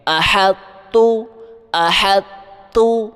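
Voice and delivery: احط with a light heavy ط sound, then تو; light ṭa merged into ta. Shown as a demonstration. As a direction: keep a touch of ط in احط before تو. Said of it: "طا کی بھی آواز نکالنی ہے ہلکی سی".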